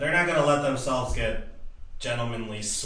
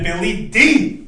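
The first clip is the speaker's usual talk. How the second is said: drawn-out nickname; 9 semitones higher, 11 dB louder, slower than usual. Pretend.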